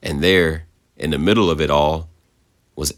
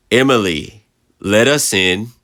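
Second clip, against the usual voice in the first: eerie sister's voice; 5 semitones higher, 4 dB louder than usual. A narrator's reading. Sister's voice demanding entry.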